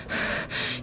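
soft, voiceless nervous breathing; imitated panting. Nervous accomplice waiting to give the signal, acted panting. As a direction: act out anxious panting.

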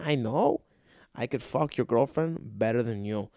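lightly voiced indignant plumber; a hint of a scornful tradesman; scolding plumber.

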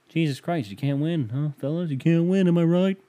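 high, building hammed-up complaint; mock showman griping. Appealing to the fellas about never winning, hammed-up exasperation. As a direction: build to a hacky crowd-pleasing tagline.

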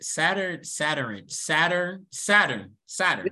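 Saturn repeated as sad-urn, each falling; Saturn drills. Shown as a demonstration. Practising Saturn the friend's way. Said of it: "how I say it".

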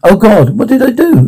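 rising high in panic; horrified. Acted. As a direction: gasp it out, shaken by what happened. Horror after the damage.

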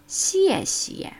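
"Xie xie" said high and bright; "Xie xie" with a clear falling Mandarin tone; Chinese thank you. Shown as a demonstration. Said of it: "Wie im Wort Danke".

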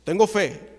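loud, confident televangelist; forceful show of faith; voice of authority. Retold or imitated. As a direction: declare it boldly like a TV preacher. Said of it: "con voz de autoridad".

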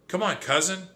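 high urgent call; screaming. Acted. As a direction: scream it over the waves. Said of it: "he screamed".

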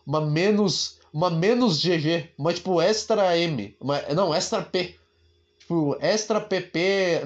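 usual speaking voice

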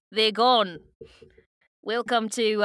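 attempted Australian accent; rough, joking imitation of an Australian. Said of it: "never heard an Australian accent before".

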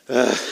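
imitating a deep weary sigh; a lightly voiced exasperated "ugh"; mock sigh. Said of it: "Jesus sighed deeply in his spirit".

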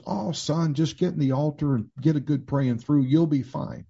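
a hint of a reassuring older mentor; lightly voiced pastor. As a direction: lightly imitate a pastor brushing off the worry. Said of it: "I went to my pastor".

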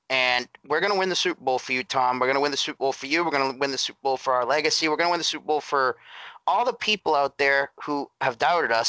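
rattled off fast like a pep chant; hurried team-huddle promise, hammed up; mock rallying cry. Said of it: "you say".

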